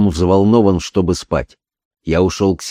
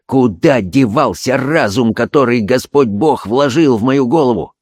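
agitated self-reproach; 4 semitones higher than usual. Acted. Holmes berates himself, agitated.

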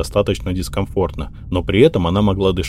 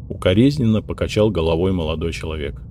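ordinary delivery

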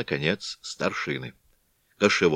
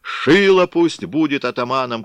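loud, high rallying shout; 6 semitones higher, 6 dB louder than usual. A narrator's reading. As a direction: bellow the name. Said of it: "кричали одни".

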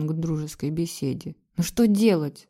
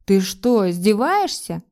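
louder, sharp indignant challenge; angry; 5 dB louder, slower than usual. A narrator's reading. Husband snapping back at his wife's accusation, angry. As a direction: bristle as if insulted. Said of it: "разозлился муж".

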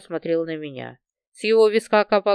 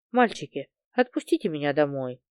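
soft, lower pleading; plaintive; 6 semitones lower, 4 dB quieter than usual. A narrator's reading. The girl softly begs the bandits to let her go. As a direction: beg softly like a frightened girl. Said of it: "жалобно попросила я".

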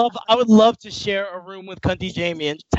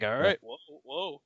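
imitating Cobra; 7 semitones lower, 10 dB quieter than usual. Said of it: "Cobra was like".

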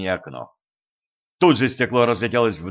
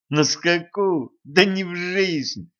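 higher, slow, carried-away retort; heated; 7 semitones higher, much slower than usual. Acted. Boy caught up in the chase scoffs at the girl, heated. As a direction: get swept up in the chase and protest hotly. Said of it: "запальчиво ответил мальчик".

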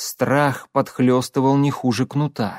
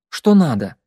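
curt retort; 2 semitones higher, 4 dB louder than usual. Acted. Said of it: "отрезала Катя".

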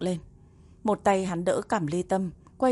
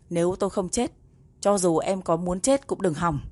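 angry. Acted. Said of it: "vẫn chưa nguôi giận".

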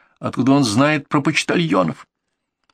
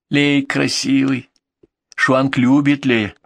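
маленькая девочка; slower than usual. Acted. Little girl's lines, slow.

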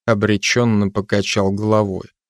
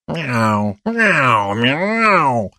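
protesting meows; 2 semitones higher, much slower than usual. Acted. Cat protests to the constable in rising meows.

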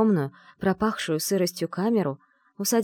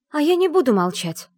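much higher, louder declaration; loud defiance; 10 semitones higher, 7 dB louder than usual. A narrator's reading. Heroine defies the household, loud and high. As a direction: speak up loudly, defiant. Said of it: "проговорила громко".

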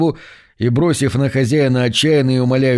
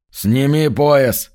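slow, calm command; unperturbed; 2 semitones higher, much slower than usual. Acted. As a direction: order it with total composure. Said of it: "невозмутимо сказал высокий землянин".

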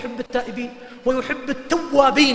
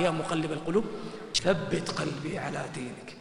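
soft supplication; 6 semitones lower, 10 dB quieter, slower than usual. Retold or imitated. Prophet's supplication quoted softly.

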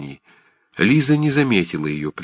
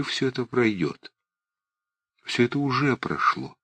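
soft insistence; 4 semitones higher, 6 dB quieter than usual. A narrator's reading. Liza softly insisting.

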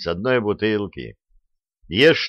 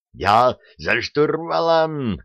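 shouting; 6 semitones higher, slower than usual. A narrator's reading. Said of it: "проорал Петровский".

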